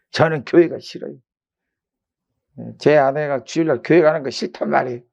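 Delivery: lightly acted tipsy protest; drunk husband. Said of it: "술 취해서 하는 말이".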